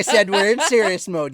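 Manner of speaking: high put-on voice; character voice. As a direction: keep the silly voice going. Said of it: "I know I'm doing this voice".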